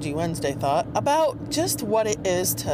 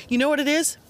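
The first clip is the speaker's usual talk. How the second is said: higher, louder teasing question; building tease; 8 semitones higher, 5 dB louder, faster than usual. Real, not acted. Host teases listeners before the dice reveal, higher and louder. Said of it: "teasing build-up repeated".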